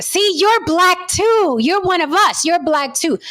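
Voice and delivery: high, slow, gleeful cheer of others; lightly mock the crowd cheering; mock rejoicing. Quoting people online as a high gleeful cheer.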